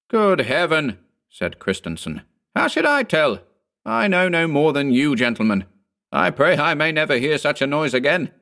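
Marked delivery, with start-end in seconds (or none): 0.1-1.0 higher-pitched, appalled cry; alarmed exclamation. A narrator's reading. Landlord questioned about the horrible noise, alarmed exclamation. 2.5-8.3 high-pitched, agitated denial; distressed protest. A narrator's reading. Landlord pleads ignorance of the horrible noise, distressed protest. Landlord frightened, denies knowing anything.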